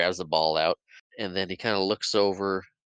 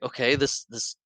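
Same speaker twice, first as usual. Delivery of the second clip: reluctant laughing agreement; 5 semitones higher than usual. Retold or imitated. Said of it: "So Peter's like".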